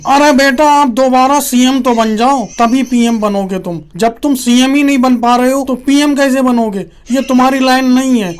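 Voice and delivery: mock fatherly leader, opening high and loud; hammed-up elder correcting the youngster; patronizing senior politician. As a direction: talk down to a junior in an impressionist's voice.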